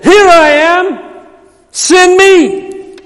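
high, slow, ringing call of Isaiah; eager high cry. Acted. Preacher voicing Isaiah offering himself, high and slow. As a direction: lift it up high and stretch it out. Isaiah's answer voiced in sermon.

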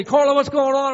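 high, loud exasperated yell; shouted, high-pitched complaint. Acted. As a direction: yell at a bank teller. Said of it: "I can yell at".

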